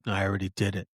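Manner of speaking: dead-serious, matter-of-fact; a hint of cold menace. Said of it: "very seriously".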